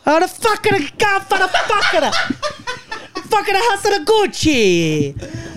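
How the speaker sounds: words lost in laughter; laughing. Real, not acted. Laughing nonsense rant.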